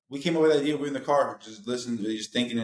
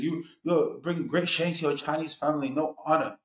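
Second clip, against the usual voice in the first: mock Asian accent; 4 semitones higher than usual. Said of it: "I try to do an Asian accent".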